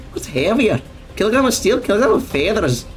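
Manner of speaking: Scottish imitation with "fey-thers"; imitated Scottish accent. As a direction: quote the riddle like a Scottish comedian. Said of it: "He doesn't say feather, he says feather".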